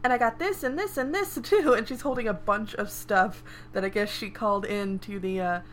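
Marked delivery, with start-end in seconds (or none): 0.0-1.7 matter-of-factly. Acted. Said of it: "matter-of-factly".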